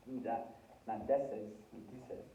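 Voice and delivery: deces with an e, dices with an i; the wrong form, then the right one; deces against dices. Shown as a demonstration. Teacher contrasts the vowels for the class. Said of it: "Notice how it's D I".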